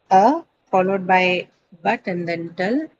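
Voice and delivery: "a", "but", "tal" set apart as syllables; name each syllable separately, "a", "but", "tal". Shown as a demonstration. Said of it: "how many syllable does it have".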